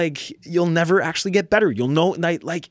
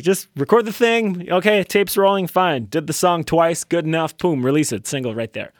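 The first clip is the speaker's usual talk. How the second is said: a singer's voice; 3 semitones higher than usual. Retold or imitated. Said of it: "promise no more impressions".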